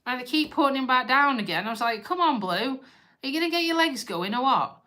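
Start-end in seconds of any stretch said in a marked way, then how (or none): 2.0-4.8 higher-pitched mock-exasperated urging; retold pleading with a pet; coaxing the dog. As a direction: chivvy along a stubborn dog, pitched up. Coaxing tired dog in retold scene.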